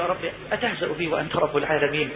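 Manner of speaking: low, soft incredulous question; hushed disbelief. Acted. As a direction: ask God as one who cannot believe it. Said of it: "ما هو مش مصدق".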